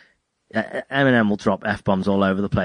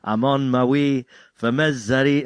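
put-on half-hearted Scottish accent, sung slowly; a light Scottish lilt, slow; mock Scottish accent; 4 semitones higher than usual. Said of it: "I see, I'm Scottish".

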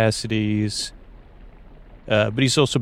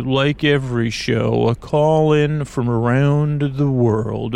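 late-night radio host; 2 semitones higher than usual. Acted. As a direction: croon the station intro like a night DJ. Keeps playing the radio host.

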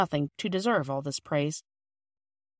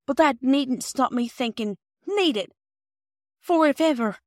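higher, teasing housewife; fond Mrs Perks; 6 semitones higher, 5 dB louder than usual. A narrator's reading. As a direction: keep praising them with a smile.

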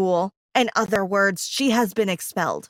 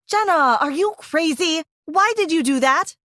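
scolding friend; 5 semitones higher than usual. Acted. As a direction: scold her over the phone.

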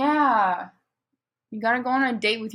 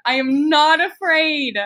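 defiant insistence; 3 semitones higher, 4 dB louder, slower than usual. Real, not acted. Insisting after a threat.

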